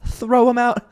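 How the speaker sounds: high-pitched, hammed-up revulsion; mock disgusted. Recapper appalled by Alex's nasty line, high mock disgust. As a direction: squeal it as if too appalled to say it.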